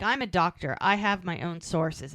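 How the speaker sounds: restrained retold anger, slowing down; pissed off. Doctor defending himself to his partner, mildly pissed. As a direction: insist with mild, measured irritation. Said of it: "And he's pissed".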